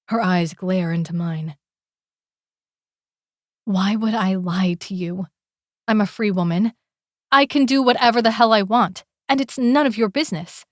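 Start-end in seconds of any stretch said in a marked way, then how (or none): 3.6-10.6 put-on defiant young woman. She insists she is free.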